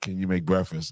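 normal talking voice

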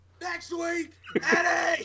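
very high, acted-out shouting. Retelling a repeated challenge someone kept shouting: imitating someone yelling. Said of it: "he just yells out".

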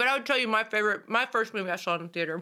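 speaking with mouth full of food, chewing. Chatting about first movies seen in theaters, the speaker talks while chewing. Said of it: "I'm chewing".

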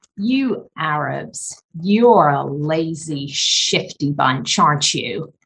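put-on brash, blustering tone, played down. Retelling what a man at the table said to the speaker, retelling a loud remark. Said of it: "and in a loud voice".

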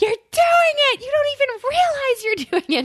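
acted-out shrill, very high, accusing scream. Retelling how a girlfriend screamed over FaceTime: imitating someone screaming. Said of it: "so she screams at me".

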